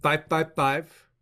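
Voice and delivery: slow, one digit at a time; dictating. Real, not acted. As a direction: spell out each number slowly. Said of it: "Write this down".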